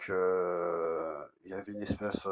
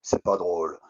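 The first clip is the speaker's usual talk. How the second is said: annoyed scolding; 2 semitones lower, 6 dB louder, slower than usual. Retold or imitated. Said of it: "je m'énerve".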